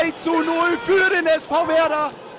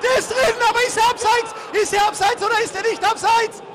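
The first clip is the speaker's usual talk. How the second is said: tense excited commentary. Real, not acted. Tense live chance, offside doubt.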